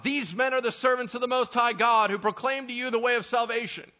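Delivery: high, loud proclaiming cry; a slave girl crying out after Paul, high and loud. Acted. Slave girl following Paul, crying out loud and high. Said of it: "crying out".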